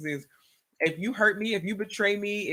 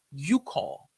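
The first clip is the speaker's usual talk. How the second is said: low, measured command; relentless God; 4 semitones lower, slower than usual. Retold or imitated. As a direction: lay down a command that allows no argument. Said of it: "he was relentless with it".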